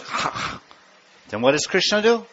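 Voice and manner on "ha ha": quiet voiceless monkey ha-ha; monkey laugh. Retold or imitated. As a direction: huff it like a monkey. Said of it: "the monkey goes".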